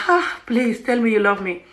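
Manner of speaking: slow, dreamy sighing plea; playful swooning; mock lovestruck pleading. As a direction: sigh it as if smitten.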